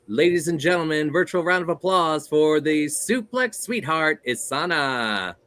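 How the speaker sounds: booming wrestling ring introduction; ring announcer voice. Acted. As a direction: announce her like a boxing ring MC. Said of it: "That is my ring announcer voice".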